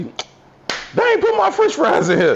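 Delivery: high, slow, exaggerated mama complaining; a drawn-out high-pitched gripe about missing fries; imitating mama. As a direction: whine it slow and high like an upset mother.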